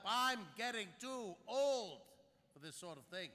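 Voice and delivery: a Kirk-style line, lightly done; Captain Kirk. Acted. A line compared to Captain Kirk, lightly voiced. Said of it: "you sound like Captain Kirk".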